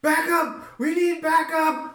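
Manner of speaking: high, alarmed shouting guard; panicked shout. Acted. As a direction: yell for backup in panic. Guard calls for help.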